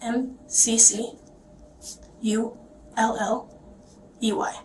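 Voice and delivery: letter by letter, spelled slowly; spelling it out. Shown as a demonstration. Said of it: "Spell, please".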